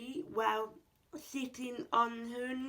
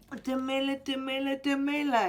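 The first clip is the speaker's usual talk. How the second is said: yelling; 2 semitones higher, 6 dB louder, much faster than usual. Acted. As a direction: yell the greeting out eagerly, louder each time. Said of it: "yelled Tom".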